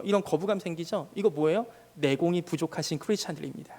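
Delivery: ordinary delivery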